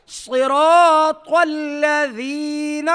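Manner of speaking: الذین with tongue-tip th, long vowels; heavy sad and ta. Shown as a demonstration. Teacher modelling heavy letters, slow chanted صراط الذین. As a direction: chant صراط very slowly with thick emphatic s and t. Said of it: "صاد کو موٹا کریں".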